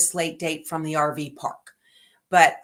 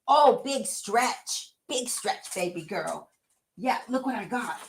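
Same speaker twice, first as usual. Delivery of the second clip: cooing to the dog; 3 semitones higher, 3 dB quieter than usual. Real, not acted.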